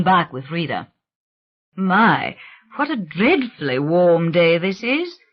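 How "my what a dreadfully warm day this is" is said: a hint of an elegant English accent; a touch of refined English accent, unhurried; mild English accent, gently remarking on the heat; lightly done English gentleman. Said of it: "in his elegant English voice".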